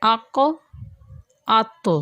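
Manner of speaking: اق and ات each closed with a bouncing release; qalqala bounce. Shown as a demonstration. Teacher drills qalqala letters: bouncing stops. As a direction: clip then release the final consonant. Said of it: "اگر ہم قاف کے بعد طا ہے".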